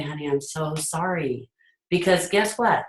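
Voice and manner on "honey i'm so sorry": sympathetic parent. Retold or imitated. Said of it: "I would say".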